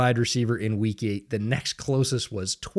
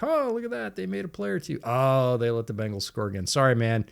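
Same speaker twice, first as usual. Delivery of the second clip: mock sympathy. Bar fans mocking the Jets fan with fake pity. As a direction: rub it in with fake sorrow.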